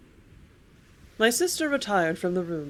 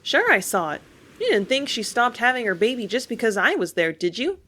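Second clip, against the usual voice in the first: retort; 4 semitones higher, 4 dB louder than usual. Acted. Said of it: "I retorted".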